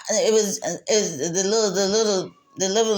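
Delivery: words breaking into a real laugh; trying to hold in the giggles and failing; fighting back laughter. Real, not acted. Telling about the blind couples, real laughter breaking through. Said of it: "I'm trying not to laugh".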